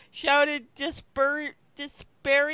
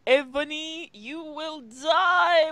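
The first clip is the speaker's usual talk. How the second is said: villain's threat; 2 semitones higher, 7 dB louder than usual. Acted. Villain's threat read aloud.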